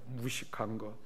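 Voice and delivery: a hushed, private sneer at the neighbor; inner scornful thought. Retold or imitated. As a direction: think it to yourself with contempt, barely voiced. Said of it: "마음으로 생각했다는 거예요".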